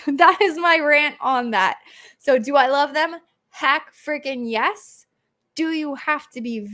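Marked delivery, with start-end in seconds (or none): 0.0-1.8 slow, laughing wrap-up. Real, not acted. Host ending her rant to viewers, laughing. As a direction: laugh off your own rant.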